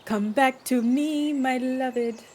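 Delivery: mock serenade. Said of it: "serenade your beloved".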